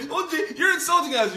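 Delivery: mocking whine. Mocking the offended Pharisee again.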